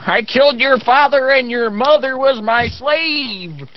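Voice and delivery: high, gloating villain boast; sneering gloating dark voice. Acted. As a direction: taunt slowly like a cartoon villain. Mock villain boast in bluff.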